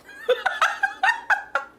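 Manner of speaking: high, loud burst of laughter. Real, not acted. Player laughing at the void reveal. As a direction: cackle at the twist.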